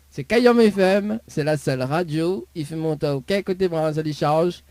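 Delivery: radio slogan read. Shown as a demonstration. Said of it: "Voilà le slogan complet".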